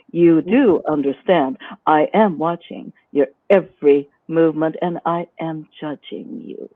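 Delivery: a lightly played stern mistress; strict dominant. Shown as a demonstration. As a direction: give orders that allow no question. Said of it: "speaking in a more strict manner".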